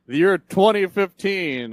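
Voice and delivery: high, slow mock announcement; movie quote. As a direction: proclaim the year like a film line. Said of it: "you watch Back to the Future now".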